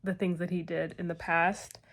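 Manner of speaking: talking with retainers in; slight lisp through retainers. Real, not acted. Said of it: "Sorry, I have a lisp now".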